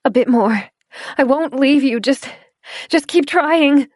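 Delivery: high, loud coaxing; girl coaxing her friend to keep going; desperate encouragement. Acted. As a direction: urge him on, slowing at the end. Helping him stand.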